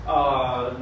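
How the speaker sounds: usual speaking voice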